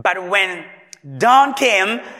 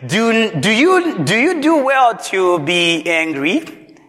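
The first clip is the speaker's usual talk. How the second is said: slow, weighty divine question; slow, measured voice of God; the Lord asking; 2 semitones higher, 3 dB louder, slower than usual. Acted. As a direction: ask slowly, as God probing. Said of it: "And the Lord said".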